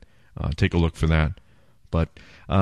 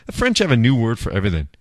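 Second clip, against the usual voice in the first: mock voice; 3 semitones higher, faster than usual. Jokey voice after laugh.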